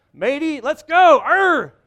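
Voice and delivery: loud, high hammed-up pirate cry. Husband playing a pirate once the sails go up. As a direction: bellow like a cartoon pirate.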